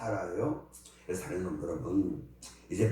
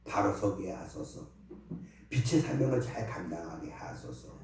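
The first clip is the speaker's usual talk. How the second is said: prayer. Acted. Pastor continues prayer. (목사가 회중을 위해 드리는 엄숙한 기도)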